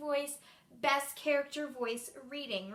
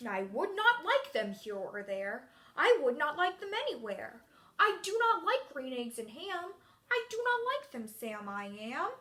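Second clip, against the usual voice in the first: grumpy character voice. Shown as a demonstration. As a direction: refuse each offer like a storybook grouch. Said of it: "I'm gonna use a grumpy voice".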